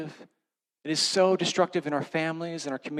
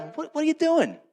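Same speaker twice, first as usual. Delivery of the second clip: sharp, much higher indignant demand; indignant outburst; 13 semitones higher, 3 dB louder than usual. Retold or imitated. Driver confronting a truck that cut him off, indignant. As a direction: snap it at the other driver, half-embarrassed. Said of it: "I'm embarrassed to admit it".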